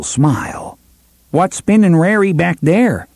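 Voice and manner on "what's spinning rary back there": high, rough-edged Nordite picket voice; a confused young Nordite asking in his thick accent; strong Nordite accent. A narrator's reading. Young picket greets strangers, thick Nordite accent. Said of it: "speaking with a strong in-world accent".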